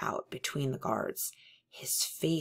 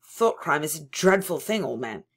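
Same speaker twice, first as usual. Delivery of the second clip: louder, preachy moralising; sententious; 7 dB louder than usual. Acted. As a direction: lecture him like a pious elder.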